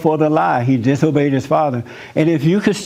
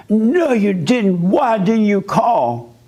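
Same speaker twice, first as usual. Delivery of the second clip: mock angry wife; 4 semitones higher, much slower than usual. Retold argument with angry wife.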